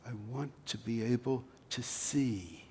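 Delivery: simple quiet plea. Acted. Beggar answering Jesus, a soft humble plea. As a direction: ask it humbly, barely above a breath.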